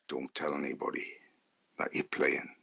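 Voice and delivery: low, soft confidential warning; hushed secret. Retold or imitated. Manager swearing young player to secrecy, hushed. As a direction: keep it down, between us. Acted secret instruction from gaffer.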